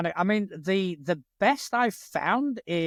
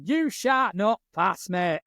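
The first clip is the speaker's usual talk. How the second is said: slow, drawn-out mock film line; wizard line, northern accent; 3 semitones higher, slower than usual. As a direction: lightly declaim it as an epic fantasy wizard. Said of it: "someone with an accent like mine going".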